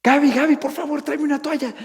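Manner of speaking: high, loud urgent call for a towel. Retold or imitated. Father calling his wife for a towel. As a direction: shout across the room for help. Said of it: "todos empezamos a gritar".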